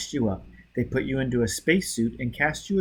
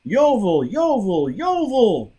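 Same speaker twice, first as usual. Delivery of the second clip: loud repeated shouts, rising higher; shouting a name; 9 semitones higher, 5 dB louder, slower than usual. A narrator's reading. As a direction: yell the name over and over. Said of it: "Bunny began to shout".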